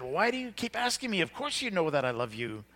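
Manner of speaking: retold upset outburst, high-pitched at the start. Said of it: "he's getting upset".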